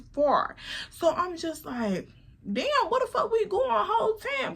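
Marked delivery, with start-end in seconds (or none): 2.5-4.6 laughing disbelief. Retold or imitated. Surprised at long drive.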